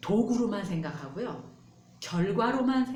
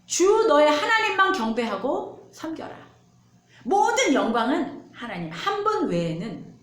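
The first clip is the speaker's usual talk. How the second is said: louder, higher, slow commanding proclamation; solemn command; 6 semitones higher, 5 dB louder than usual. Acted. Pastor voicing God's command to worship only Him, loud and slow. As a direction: command it slowly and firmly. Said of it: "하나님이 뭐라고 얘기하시냐".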